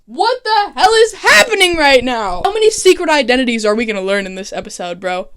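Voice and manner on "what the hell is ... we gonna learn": higher and louder, amazed; stunned disbelief. Real, not acted. Vlogger reeling from the twist, loud and high. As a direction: react like you can't believe it.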